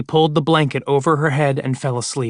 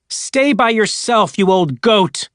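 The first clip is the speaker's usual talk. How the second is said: higher, a bit slow mock holler; hollering back; 6 semitones higher, slower than usual. Woman yells back at the voice, mild holler. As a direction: yell into the dark, scornful. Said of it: "she hollered back".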